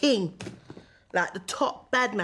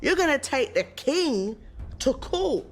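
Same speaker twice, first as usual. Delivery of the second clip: raised, incredulous acted protest; pitched up, making a big deal of it; outraged crowd; 5 semitones higher than usual. The public hears of the king's trial, incredulous.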